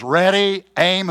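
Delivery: lightly voiced firing-squad commander; commander's order.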